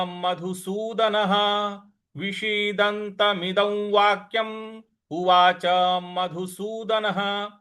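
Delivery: slow, even Sanskrit chant; slow recitation. Shown as a demonstration. Teacher recites the full half-line slowly. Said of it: "इस प्रकार से इसको बोला जाएगा".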